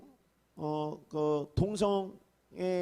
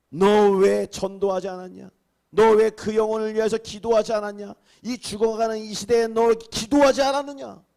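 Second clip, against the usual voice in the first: stern rebuke; 7 dB louder than usual. Acted. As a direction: thunder the reproach at a neglectful believer. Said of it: "책망하는 거예요".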